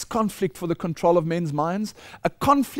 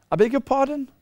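mock disbelief; 5 semitones higher than usual. Preacher reacts to quoted scripture.

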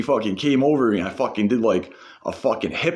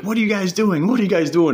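put-on much higher, alarmed girlfriend voice; imitating the girlfriend; 11 semitones higher, 3 dB louder than usual. Girlfriend catching the boys about to fight, much higher alarmed voice. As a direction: play her as suddenly alarmed.

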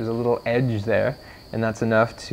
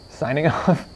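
"Signing off" slower with a laugh; 4 semitones higher, slower than usual. Real, not acted. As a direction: chuckle through "Signing off".

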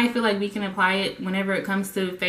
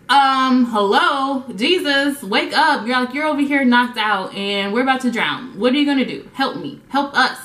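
panicked disciples; 3 semitones higher than usual. Retold or imitated. Disciples begging sleeping Jesus to wake, panicked. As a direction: shake him awake, we're sinking.

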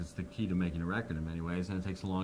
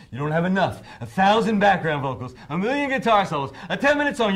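mocking whine; 10 semitones higher, 11 dB louder than usual. The speaker mocking the whining request.

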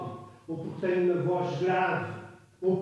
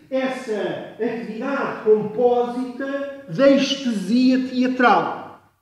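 raised, much louder lecture voice; shouting; 5 semitones higher, 9 dB louder than usual. Shown as a demonstration. Lecturer shouting about theatre's sensory closeness, high loud shouting. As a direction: shout it out emphatically, pitched high. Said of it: "eu pus-me aqui aos berros".

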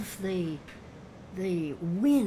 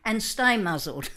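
loud, higher command, slower at the end; commanding rebuke; 3 semitones higher, 8 dB louder than usual. Retold or imitated. Jesus commanding the storm wind, loud rebuke. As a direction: order the wind to be silent. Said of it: "Jesus was saying in the tense he used".

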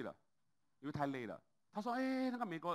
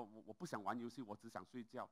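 sleepy impatient refusal; 3 semitones lower, 6 dB quieter than usual. Retold or imitated. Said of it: "很不耐烦说".

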